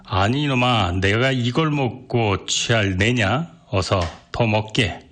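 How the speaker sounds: put-on slow, slurred drunk cry; a drunk cabman, slow and pushy; drunken outcry. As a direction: hold the drink insistently. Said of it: "취한 이는 부르짖었다".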